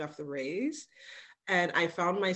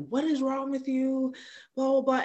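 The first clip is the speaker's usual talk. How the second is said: raised, sharp scolding question; retold yell; 8 semitones higher, 3 dB louder than usual. Mother to daughter mid-tantrum, retold sharp yell. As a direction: snap at a screaming toddler. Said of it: "I yelled at her".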